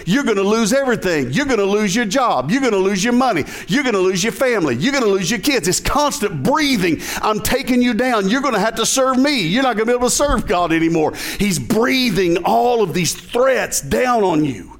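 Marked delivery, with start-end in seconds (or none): 0.1-5.7 higher, pressing taunt, lightly voiced; preacher voicing a mocking inner enemy. Enemy's threats voiced in your head. 7.2-11.1 preacher voicing the enemy's gloating threat. Enemy's threats voiced in your head.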